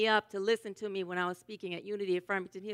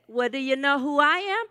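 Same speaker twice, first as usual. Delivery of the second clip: rising, slightly lifted question; acted checking question, voice climbing to the end; anxious check; 4 semitones higher, 5 dB louder than usual. Usher asks the lady back in a joke, anxiously checking.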